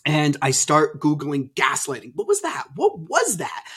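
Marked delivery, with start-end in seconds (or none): 2.2-3.6 high, softened disbelief; baffled questioning. Retold or imitated. Husband recalling googling gaslighting after the fight, mildly baffled. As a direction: ask it pitched up, puzzling to yourself. Recalls puzzling over the incident.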